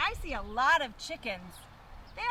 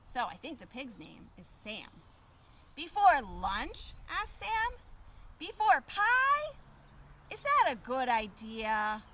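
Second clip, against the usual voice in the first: put-on reading to children; 3 semitones lower, slower than usual. A narrator's reading. Reading picture book to children.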